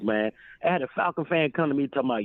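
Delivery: ordinary talk, nothing marked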